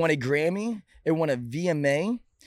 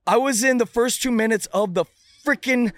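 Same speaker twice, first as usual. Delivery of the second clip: excited disbelief; 6 semitones higher, 5 dB louder than usual. Real, not acted. Disbelief over tiny paycheck.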